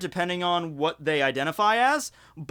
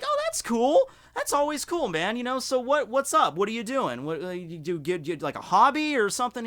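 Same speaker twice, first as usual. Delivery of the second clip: fake-cheery politeness; 5 semitones higher than usual. Polite reply to old friend.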